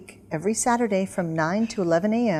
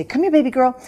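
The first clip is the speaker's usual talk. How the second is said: higher, louder coaxing call; sweet call to puppy; 5 semitones higher, 5 dB louder than usual. Acted. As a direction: coax the puppy over. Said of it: "you say".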